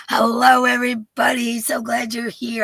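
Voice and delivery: high and loud, bubbly hello; cheery welcome to stream viewers; excited greeting. Real, not acted. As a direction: greet the crowd with a big lift.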